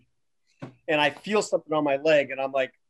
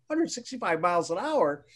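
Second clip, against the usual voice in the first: incredulous echo; 3 semitones higher, 3 dB quieter than usual. Retold or imitated. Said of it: "I'm like".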